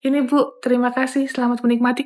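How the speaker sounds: each thanks spoken one at a time, unhurried; a junior serving slowly to please her perfectionist senior; slow careful serving. Shown as a demonstration. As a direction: take your time over every passenger. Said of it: "Kan lama ya ceritanya ya".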